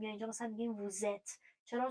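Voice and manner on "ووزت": "ووزت" joined by a z sound; liaison with z. Shown as a demonstration. Teacher shows the liaison rule, "ووزت" linked with z. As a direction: run "ووزت" together as "vou-zèt". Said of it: "به هم چسبیده تلفظ بکنیم و صدای ز بشنویم".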